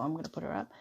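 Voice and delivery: whisper. Real, not acted. Whispered aside while placing card.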